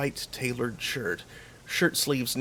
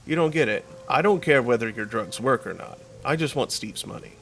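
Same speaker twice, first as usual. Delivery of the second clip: louder, exasperated and blunt; 4 dB louder than usual. Acted. Player cutting off the dealer's excuses, loud and exasperated. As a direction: cut through his excuses with raised voice.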